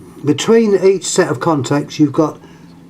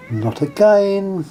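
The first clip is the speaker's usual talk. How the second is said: higher, drawn-out weary protest; mock exasperation; 5 semitones higher, slower than usual. Real, not acted. Presenter to his interrupting pet cat, mock exasperation. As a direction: stretch it out in playful dismay.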